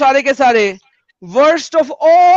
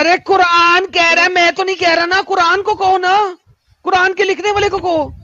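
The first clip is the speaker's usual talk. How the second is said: loud like a loudspeaker; 5 semitones higher than usual. Real, not acted. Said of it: "इतना चिल्ला चिल्ला के loudspeaker की तरह बोल रहे हो".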